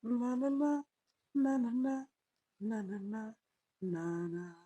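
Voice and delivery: stammering, fading to near silence; shocked stammer. Acted. Shaken husband stammering to himself, fading away. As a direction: stumble over the first sound, trailing off.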